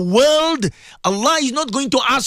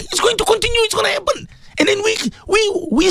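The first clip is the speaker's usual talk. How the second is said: voice breaking; 10 semitones higher than usual. Real, not acted. Voice breaks in emotion.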